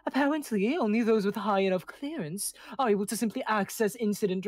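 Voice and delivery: lightly voiced haughty informant; confiding proud angel. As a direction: share secrets with airs. Angel NPC shares intel.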